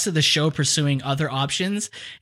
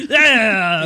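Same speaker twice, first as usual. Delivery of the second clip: Greedo; 5 semitones higher, 5 dB louder than usual. Acted. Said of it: "that guy from Star Wars".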